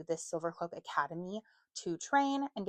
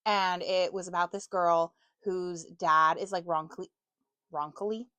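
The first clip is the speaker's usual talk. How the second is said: hiccups; 5 dB louder than usual. Real, not acted. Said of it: "I have the hiccups now".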